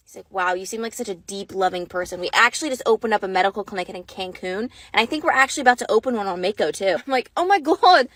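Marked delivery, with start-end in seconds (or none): 0.3-7.0 low, put-on Australian man's voice; hammy deep Australian accent; mock Australian accent. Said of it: "with our stupid Australian accent". 7.4-8.1 gushing mock-Australian voice; excited fake Australian; fake Australian accent. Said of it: "with our stupid Australian accent".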